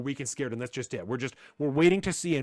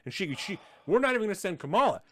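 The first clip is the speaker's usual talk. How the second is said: mocking Biden; 3 semitones higher, 4 dB louder, faster than usual. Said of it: "Joe Biden is like".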